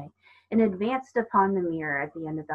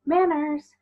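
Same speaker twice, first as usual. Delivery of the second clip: a sharp, much higher, louder single word; stern reprimand; 10 semitones higher, 5 dB louder than usual. Acted. Other mother scolding Coraline for rudeness, sharp and high. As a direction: snap the word out like a strict mother.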